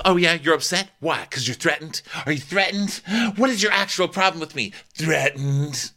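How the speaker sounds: high-pitched mock taunt. Mikhail taunts TJ about being threatened, high and goading.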